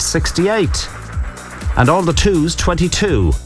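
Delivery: slow, drawn-out number calling; bingo caller. Acted. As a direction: call each number like a bingo hall.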